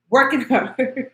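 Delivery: slow, amused "Working hard" broken by a laugh; laughing repeat. Real, not acted. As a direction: laugh through the words. Mocking the phrase with a laugh.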